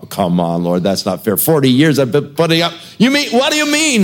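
plead, then break into a high incredulous whine; protesting Moses. Acted. Moses protesting to God about the promised land, rising in disbelief.

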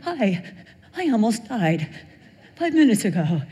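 laughing shakily at a close call; shaky laughing. Retold or imitated. Driver after a near crash, laughing shakily. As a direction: giggle through the shock.

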